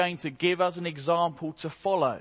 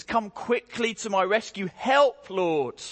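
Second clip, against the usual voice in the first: desperate cry for help; 4 semitones higher than usual. Acted. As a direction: plead like a man on his knees. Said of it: "David says".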